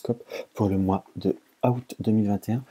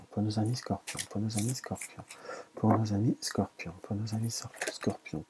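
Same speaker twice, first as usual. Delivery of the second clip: hushed, playful repeats trailing away; écho qui s'estompe; 9 dB quieter than usual. Pretend. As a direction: repeat it softly like a receding echo. Répète le signe comme un écho. (en écho, de plus en plus doucement)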